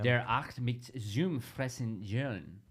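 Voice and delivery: slow, careful mock German reading; German accent. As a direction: sound out the German slowly. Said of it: "read you some words in my German accent".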